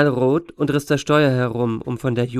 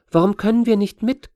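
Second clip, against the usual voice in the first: put-on higher-pitched whiny girl; whining child; 8 semitones higher, 3 dB louder than usual. A narrator's reading. Astor begging to come along, whining child. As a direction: whine like a kid left out. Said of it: "quengelte sie".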